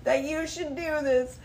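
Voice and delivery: high, loud scolding, slowing at the end; scolding lecture. Retold or imitated. Lecturing the stranger who chased her car. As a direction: tell him off, pointed. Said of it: "I'm like".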